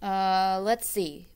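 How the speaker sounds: sleepy yawn. Acted. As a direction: yawn it out drowsily. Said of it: "Bear said with a yawn".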